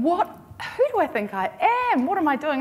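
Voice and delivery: mock panic, almost in tears; near tears. Panicking alone in a toilet at Frankfurt, near tears. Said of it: "I was almost in tears going".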